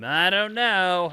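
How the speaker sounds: slow, loud tough-guy drawl; a hint of Knuckles. To the mayor, briefly sounding like Knuckles. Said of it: "I kinda sound like Knuckles there".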